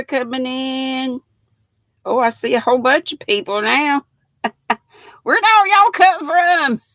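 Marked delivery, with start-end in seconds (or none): 5.2-6.8 laughing, higher and louder at the sudden crowd; amused surprise. Real, not acted. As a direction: giggle it out, caught off guard. Surprised by many viewers arriving.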